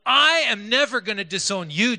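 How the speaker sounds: "I" hit loud and high at the start; stress on I. Retold or imitated. Preacher showing Peter's self-reliance, stress on "I". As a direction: lean hard on "I" and "never". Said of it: "it's all about him".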